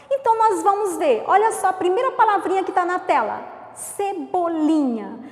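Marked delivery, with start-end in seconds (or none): 3.7-5.2 Cebolinha split slowly into syllables; Cebolinha, slowly, one syllable at a time. Shown as a demonstration. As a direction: spell out Ce-bo-li-nha slowly. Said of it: "Vamos contar quantas sílabas".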